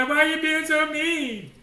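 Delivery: high, slow, whimpering mock complaint; mock crying whine. Moses imagined cowering before Pharaoh, mock whining. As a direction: play a crybaby cowering. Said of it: "Was he gonna cower down and cry".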